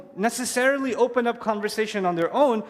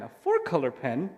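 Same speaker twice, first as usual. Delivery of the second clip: put-on amazed child; 9 semitones lower, 4 dB quieter than usual. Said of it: "He asked me".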